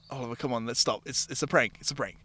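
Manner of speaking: soft, low, soothing; a quiet, calming plea to stop; calming bar lady. Retold or imitated. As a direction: settle him down gently.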